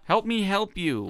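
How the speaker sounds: high, loud, slow mock begging; hammed-up pleading, every word drawn out; exasperated plea. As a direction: stretch it out imploringly.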